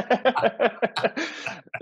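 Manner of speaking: a bright burst of real laughter; amused laugh. Real, not acted. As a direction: laugh freely at the remark. Reacts to accent remark.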